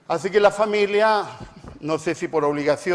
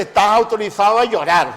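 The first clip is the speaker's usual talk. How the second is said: anuncio enfático; 2 semitones higher, 7 dB louder than usual. Retold or imitated. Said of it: "para decirle".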